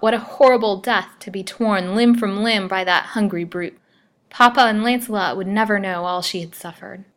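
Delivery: picture being torn apart and recoil; despairing terror. Acted. Lily clinging above the jaws, voicing her dread. Lily facing death by bloodhound.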